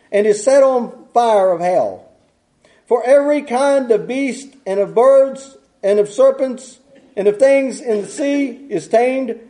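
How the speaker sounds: measured, unhurried Bible reading; scripture reading. Acted. Preacher reading James to his congregation, measured. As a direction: read the verses out deliberately to the church.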